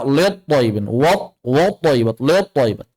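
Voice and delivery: "lit" and "wat" thickened towards let and wot; mispronounced thick reading. Shown as a demonstration. Teacher imitating common recitation errors, thickened "wat" and "lit". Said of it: "banyak baca".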